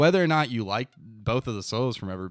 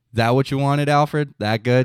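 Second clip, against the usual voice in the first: sly, sarcastic tone with a hint of mockery; 3 semitones higher, 4 dB louder than usual. Imitating how a jazz musician asks Alfred about the take: imitating the musician's sarcastic remark. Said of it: "He just says it because he's like".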